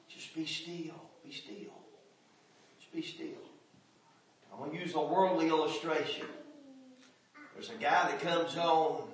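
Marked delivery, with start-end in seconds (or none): 0.1-3.3 very soft, fading to a whisper; near-whispered "be still". Acted. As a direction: let it die to a whisper. Hushed repetition of God's words.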